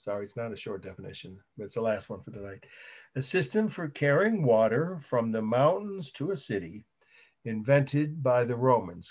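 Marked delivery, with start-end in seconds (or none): 3.2-9.1 deliberate dictation with lilting phrases; measured phrases with a pause between. Real, not acted. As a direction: dictate it for students writing it down. Repeating the definition for note-takers.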